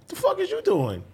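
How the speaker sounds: retold angry dad; mock confronting dad. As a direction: confront her like a startled dad. Dad confronting daughter in story.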